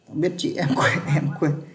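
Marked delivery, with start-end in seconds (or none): 1.1-1.6 laughing. Real, not acted. Teacher laughs at forgetting a name.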